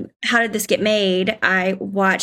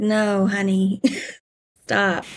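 mock scolding; much slower than usual. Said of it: "I was like".

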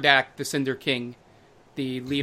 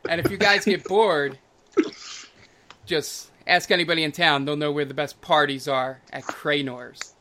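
loud, lightly raised charmer thanks; flamboyant host, delighted; 4 dB louder than usual. Acted. Cranor thanking the party and inviting them, gushing. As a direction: beam and gush, then ease off.

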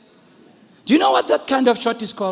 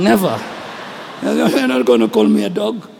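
mock indignation; 6 semitones lower than usual. Mock-indignant listener refusing insult.

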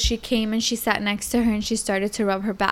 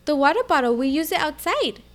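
put-on higher little-girl voice; imitated small child; 5 semitones higher than usual. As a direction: answer like an innocent child. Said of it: "And she goes".

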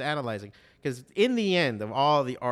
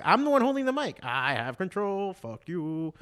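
much higher and louder, fast rising burst; fired-up declaration; 7 semitones higher, 4 dB louder than usual. Real, not acted. Comic defending his five minutes to the crowd, a fired-up shout. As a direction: claim the stage like a rallying cry. Hyped defending the mic holder.

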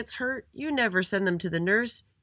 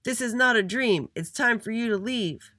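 high, loud chant-like order; shouted; 9 semitones higher, 4 dB louder than usual. A narrator's reading. All the students tell little Andy to leave, shouting. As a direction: shout him off the playground. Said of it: "they shouted".

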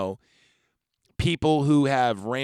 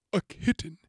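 kitten squeaked much higher; eager kitten; 9 semitones higher than usual. Retold or imitated. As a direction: say kitten with giddy, rising hunger. Renfield craving a kitten.

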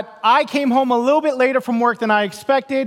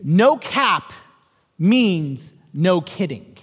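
put-on patient teen correction; 5 semitones lower, much slower than usual. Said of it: "my youngest looks at me and says".

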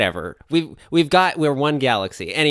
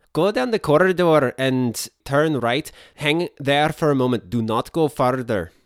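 put-on mixed Indian-Scottish accent; 3 semitones higher than usual. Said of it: "a weird Indian, Scottish thing".

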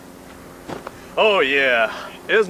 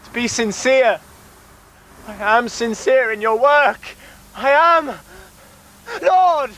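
crying out to god; 3 semitones higher than usual. Acted. Cultist cries to his god.

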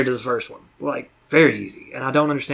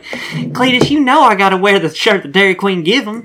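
rustic woman voice; 5 semitones higher than usual. Retold or imitated. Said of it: "is like".

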